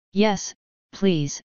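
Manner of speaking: a touch of odd eagerness; lightly eager, a little strange. A narrator's reading. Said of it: "in an eager and odd voice".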